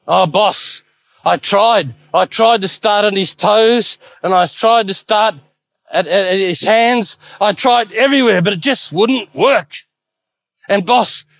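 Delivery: a frightened servant stammering his excuse; shaken and nervous. Acted. Decay reports his failure to the devil, shaken and nervous. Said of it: "Decay was all shaken up and nervous".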